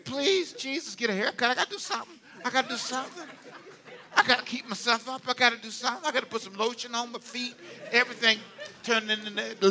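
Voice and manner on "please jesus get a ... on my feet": mock desperate prayer. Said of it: "I've been praying".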